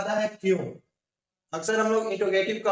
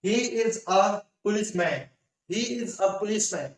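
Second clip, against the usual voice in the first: very slow, word-by-word English example; slow careful reading; much slower than usual. Shown as a demonstration. Teacher reading an example to students, very slow and deliberate. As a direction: dictate each word slowly for learners. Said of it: "अगला word".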